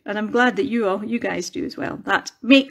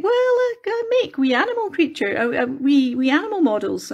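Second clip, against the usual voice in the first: retold own answer; 5 semitones higher than usual. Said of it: "And I was saying".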